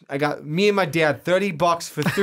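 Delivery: hammed-up Boston storyteller; mock Boston accent, dropped R's; pretend Boston accent. Cohost telling of lobsters with Dad, pretend Boston accent. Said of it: "Do you like my Boston accent?".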